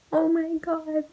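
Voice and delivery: high, loud wail of 'oh my God'; mock sobbing. Reader bawling over a book death, mock sobbing. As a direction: imitate a hysterical sobbing cry. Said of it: "sobbing like an insane person".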